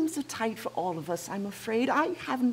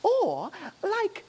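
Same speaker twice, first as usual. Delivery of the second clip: fussy gentleman. Acted. Fop hat-seller.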